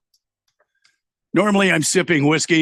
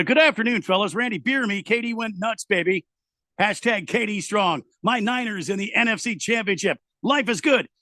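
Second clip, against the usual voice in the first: hyped fan read; 6 semitones higher than usual. Acted. Reading a fan's hype message.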